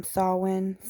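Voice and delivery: Samhain said as SAH-win; alternative pronunciation. Shown as a demonstration. Host adding how it's sometimes pronounced, alternative pronunciation of Samhain. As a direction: say Samhain with an open first vowel, "saw-win". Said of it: "how it's also pronounced sometimes".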